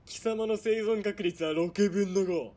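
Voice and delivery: quick, relishing the cruelty; gloating menace. Acted. Villain taunting a captive girl with russian roulette, gloating. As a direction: savour every word of the threat.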